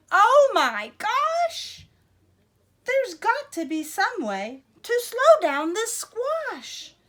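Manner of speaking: high, loud, slow panicked cry; worried Nellie. Acted. Nellie fretting over her runaway squash, high and loud. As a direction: wail it like a frantic gardener. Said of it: "She said".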